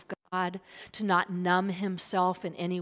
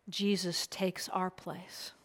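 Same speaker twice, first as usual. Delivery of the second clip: slow, whispered, much softer; 6 dB quieter than usual. Real, not acted. Preacher tells the congregation of grace in a slow whisper. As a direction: let it land in a hush.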